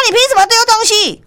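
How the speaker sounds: high, indignant challenge; mock angry retort. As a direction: fire it back at him. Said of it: "店长就抓狂啊，反击讲".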